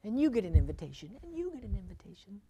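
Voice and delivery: a light Oprah giveaway voice, lifting on you; Oprah impression. Preacher handing out invitations, mild Oprah voice. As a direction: hand out invitations like a talk show host. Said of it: "meme of O-, Oprah in my head".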